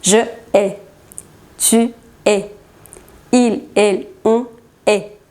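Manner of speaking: "hais" and "hait" said as a single E vowel. Shown as a demonstration. Teacher showing the first three forms, "hais" and "hait" pronounced E. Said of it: "la pronunciación es E".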